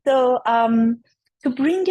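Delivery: raspy, strained laryngitis voice; talking through a hoarse, sore throat. Real, not acted. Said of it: "excuse my voice, I have laryngitis".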